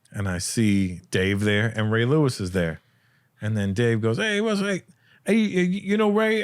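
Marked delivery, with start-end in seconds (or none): 4.2-6.4 higher-pitched retold introduction; imitated eager greeting. Dave introduces Ray at an Oscar party, imitated eager greeting. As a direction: imitate a friend breaking in to introduce someone.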